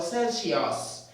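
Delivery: "Celsius" said slowly as sen-shi-os; "Celsius" with n and sh, wrong. Shown as a demonstration. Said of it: "It's pronounced as Celsius".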